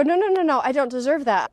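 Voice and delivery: high, loud burst of no, no; mock protest. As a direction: brush the gift away, a touch flustered. Quoting refusal to receive.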